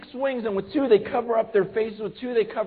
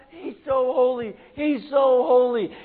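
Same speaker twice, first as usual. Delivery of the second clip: loud drawn-out call, a bit slower; screaming angels; 4 semitones higher, 6 dB louder than usual. Retold or imitated. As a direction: proclaim it like a shouting angel. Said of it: "angels screaming out".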